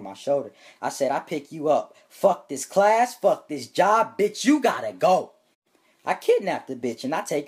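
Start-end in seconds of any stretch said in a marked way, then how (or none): 2.1-5.3 slow, loud, higher outburst; hammed-up blow-up at the job; mock rage shout. Teacher quitting in rage.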